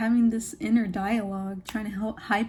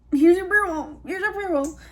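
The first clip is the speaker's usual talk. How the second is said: much higher, mock-meek retelling; high put-on voice; 8 semitones higher, 6 dB louder than usual. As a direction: hand it over in a squeaky mock voice. Retold flustered handover to angry customer.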